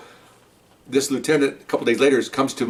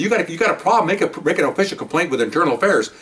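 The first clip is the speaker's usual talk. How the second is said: higher, indignant retelling; angry officer telling off his superiors, higher and heated; heated retold reproach; 3 semitones higher than usual. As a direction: push back hard on the captains. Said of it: "I mean, I'm hot".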